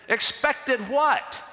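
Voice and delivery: high, drawn-out disbelief; retold startled query; alarmed question. His alarmed reply to the guide.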